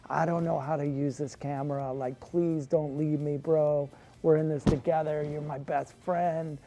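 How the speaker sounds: half-hearted pleading, slowing on please; mild mock panic, clinging and whiny; mock panicked begging. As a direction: beg your friend not to leave you, hammed-up. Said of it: "kicking and screaming".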